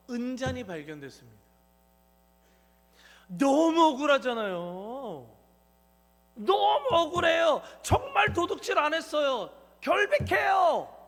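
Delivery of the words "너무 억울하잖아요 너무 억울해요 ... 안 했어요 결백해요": loud, pleading shout of innocence; falsely accused brothers crying out; indignant cry. Pretend. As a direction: yell it like you've been wronged. Brothers protesting their innocence.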